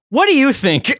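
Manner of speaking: laughing mock answer to the boss; laughing retort. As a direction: toss it back with a laugh. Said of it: "And I go".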